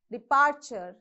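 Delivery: Departure with the middle syllable stressed; dePARture, lean on the P syllable of Departure. Shown as a demonstration. Teacher demonstrating Departure, stressed on the P syllable. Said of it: "Stress on P".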